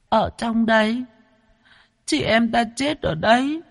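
put-on very high, tearful little girl's voice; crying child. Ghost girl showing where she and her brother died, tearful. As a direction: reveal it through tears. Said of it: "nó òa lên khóc".

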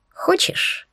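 breathy high whispered Хочешь?; predatory whisper. Acted. Heroine teasing the demon, whispering Хочешь?. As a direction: tease him in a whisper. Хищно улыбнулась я.

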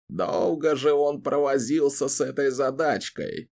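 put-on grumbling old wizard; a gruff old man's grumble; grumpy old man. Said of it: "проворчал старик".

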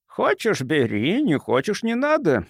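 mildly gentle, with high lilting peaks; soft reply. A narrator's reading. Doctor answering angry Gilman, softly. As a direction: answer gently with a take-it-or-leave-it lilt. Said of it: "мягко отвечал доктор".

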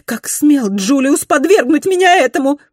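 high, loud and fast; furious indignation; indignant rage. A narrator's reading. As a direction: scorch her with outrage. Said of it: "Её негодование".

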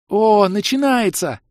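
high, loud, slow excited cry. A narrator's reading. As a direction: cry out that it's starting. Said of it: "вскрикнула Хлоя".

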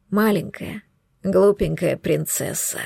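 low, slow, teasing man; low intimate male voice. Acted. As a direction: murmur it low and slow, like him. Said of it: "Его голос".

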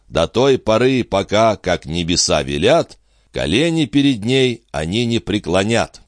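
measured, mildly solemn stage declamation; verse recitation. A narrator's reading. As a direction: recite as an actor playing a Roman consul, lightly heightened. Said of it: "Брут произнёс стихи". (декламация стихов)

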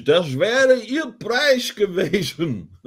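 high, slow quiz host reveal; game show host. Acted.

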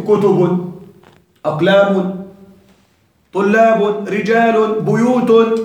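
broken plurals each closed on "-un"; tanween endings. Shown as a demonstration. Teacher listing triptote plurals for students, each with tanween "-un". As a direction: list each plural with a clear nunated "-un". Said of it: "يعني منون".

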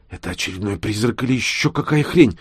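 ordinary delivery

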